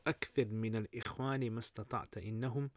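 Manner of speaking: measured, emphatic recitation of classical verse; Arabic poem recitation. Acted. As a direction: recite it as Arabic poetry, line by line.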